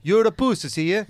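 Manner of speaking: put-on Swedish-accented "pussy" with an extra syllable in the middle; mock a Swede stretching "pussy" to three syllables; imitated Swedish accent. Swedish bouncer insulting a friend, mock Swedish accent. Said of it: "Mad extra syllables in the word pussy".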